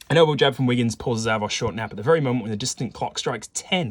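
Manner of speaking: lively scene-setting read, starting loud; story narration. A narrator's reading. Player reading the case to viewers, lively narration. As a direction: set the scene with punched key words. Reads game text aloud.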